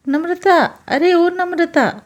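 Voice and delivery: calling out. Acted. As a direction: stretch the name out to summon her. Mother-in-law calls out for bahu. (सास बहू को ज़ोर से खींचकर पुकारती है)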